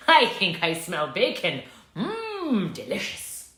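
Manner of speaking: low savouring wolf voice; hungry wolf. Acted. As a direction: relish the smell like a greedy wolf. Wolf smells bacon.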